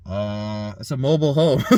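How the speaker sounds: a mock-casual answer about to crack up; holding back laughter. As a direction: try to get it out without laughing. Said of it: "holding back my".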